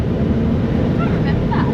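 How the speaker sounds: high, slow disbelieving query; surprised. Real, not acted. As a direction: sound genuinely taken aback. Surprised at golf course claim.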